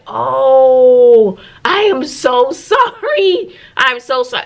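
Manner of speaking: high, drawn-out, flustered sorry; gushing apology. Retold or imitated. Teacher apologizing to colleagues she scared, high flustered sorry. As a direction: gush out an embarrassed apology.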